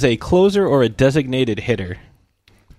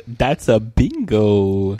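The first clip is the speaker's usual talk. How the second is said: movie quote; 2 semitones lower, much slower than usual. Retold or imitated.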